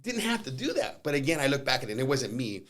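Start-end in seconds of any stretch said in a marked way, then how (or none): 0.0-1.0 high, slow, drawn-out disbelief; mock exasperation. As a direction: play up how needless it was, slowly. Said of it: "And I was like".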